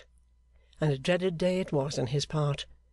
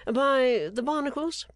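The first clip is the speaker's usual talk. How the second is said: laughing interruption; 10 semitones higher, slower than usual. A narrator's reading. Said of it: "interrupted Gowan, laughing".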